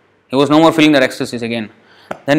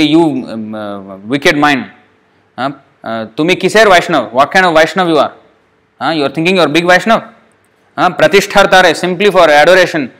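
scolding his own mind. Acted. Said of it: "He is chastising his own mind".

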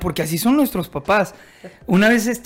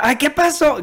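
grandma's alarmed cry, pitched higher; mock yell of a startled grandma; retold shout; 6 semitones higher than usual. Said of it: "Gritando ya". (grito fingido de la abuela, más agudo)

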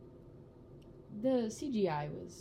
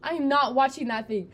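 indignant protest; 5 semitones higher than usual. Retold or imitated. Crying girl to her laughing brother, high indignant protest. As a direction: act out an upset kid refusing firmly.

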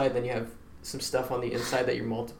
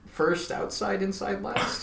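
questioning recital; 9 semitones higher, slower than usual. Shown as a demonstration. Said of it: "That's not right".

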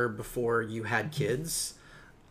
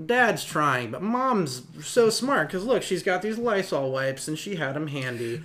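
smug mom; 2 semitones higher than usual. Retold or imitated. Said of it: "all-knowing mom who's like".

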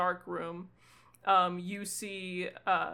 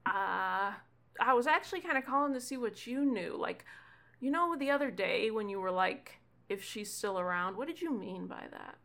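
put-on slightly raised young caller, asking; lightly voiced kid; 2 semitones higher than usual. Gunther asks Ewan on the phone, lightly voiced kid.

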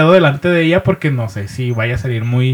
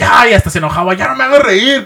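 higher, put-on girlfriend voice; girlfriend's protest; 7 semitones higher, 5 dB louder than usual. Novia que le reclama al novio entre risas, protesta fingida. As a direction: imitate a girlfriend begging for a break.

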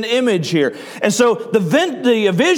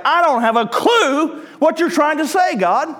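higher-pitched, mock-bewildered protest; puzzled plea, pitched up; baffled Peter; 6 semitones higher than usual. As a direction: play up being totally clueless before God. Acting out baffled Peter to God.

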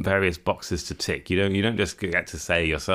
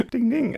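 ding sound. Pretend. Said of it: "what's the noise for yes?".

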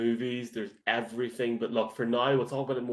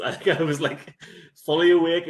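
excited; 6 semitones higher, 9 dB louder than usual. Real, not acted. Laughing about ginger shot.

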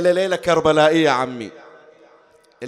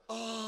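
grieving moan; 5 semitones higher, 16 dB quieter than usual. Acted. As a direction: sigh out a tearful moan. Grieving beside the grave.

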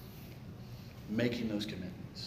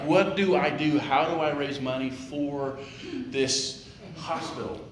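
fretting; 3 semitones higher, 4 dB louder than usual. Acted. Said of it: "they're like".

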